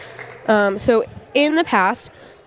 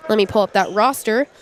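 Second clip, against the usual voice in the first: blocked nose, sniffly speech; congested sniffling; faster than usual. Real, not acted. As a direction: talk through a stuffy congested nose. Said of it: "I'm sorry about all the sniffling".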